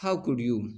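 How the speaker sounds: "How could you" with a falling tune; falling intonation. Shown as a demonstration. Teacher showing wh-question intonation, falling "How could you". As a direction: let "How could you" drop to its end. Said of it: "falling WH question में".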